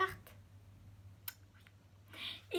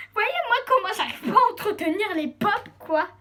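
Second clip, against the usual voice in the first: laughing; 7 semitones higher, 8 dB louder than usual. Real, not acted. Laughing at her clumsiness.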